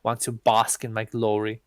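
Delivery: lightly voiced swaggering deity, pleased with himself; arrogant self-proclaimed god. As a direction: sell yourself as a god to a scared girl. Character boasting as god.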